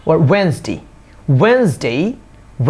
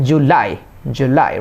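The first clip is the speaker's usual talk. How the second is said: জুলাই as "ju-LAI", second syllable pressed; stress on L; 2 semitones lower, slower than usual. Shown as a demonstration. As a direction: lean into the L of জুলাই. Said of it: "এল এর সাথে pressure দিবেন". (জুলাই-এর "লাই"-এ জোর)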